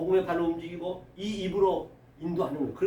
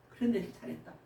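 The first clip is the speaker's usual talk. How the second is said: soft, lowered fatherly praise; tender reassurance; 3 semitones lower, 8 dB quieter, faster than usual. Acted. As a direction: murmur approval to your child, acted. Lord tenderly reassuring fallen disciple. (나직이 다독이는 칭찬)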